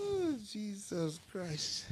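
high, slow amused cry; laughing exclaim. Real, not acted. Preacher laughing at his cash demand. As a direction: draw it out laughing.

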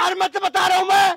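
loud warning shout; angry shout. Real, not acted. Bystander shouts at the woman to stop hitting the old man, loud warning. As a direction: bark it to make her stop.

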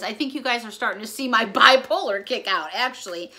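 real laugh breaking into the words. Real, not acted. Owning up to viewers about being all over the place, laughing. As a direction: chuckle at yourself partway through. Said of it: "yes, I'm laughing".

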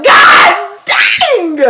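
high, loud laughing shout; high squealing god dang; shocked exclaim. Retold or imitated. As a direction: shout it out half laughing in disbelief. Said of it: "I was like".

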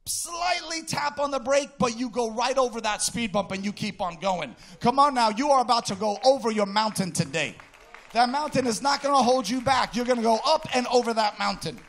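loud, rising sermon cry over the music; preaching at full force. Acted. Preacher urging the church over the mountain, full-force preaching. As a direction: drive it home to the congregation.

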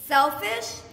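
stunned question. Acted. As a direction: repeat the accusation, still unsure. Arguing with father.

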